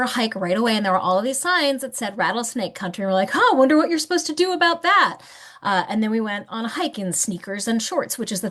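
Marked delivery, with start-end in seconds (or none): 3.3-5.2 high-pitched, lightly hammed-up wondering; retold naive puzzlement, higher voice; mock musing. Retold naive reaction to warning signs.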